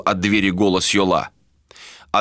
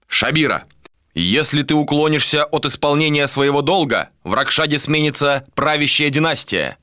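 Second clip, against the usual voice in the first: a higher voice, solemn and insistent; Al-Khara, formal; 7 semitones higher than usual. A narrator's reading. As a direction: press her to do her duty. (торжественный голос, настойчиво)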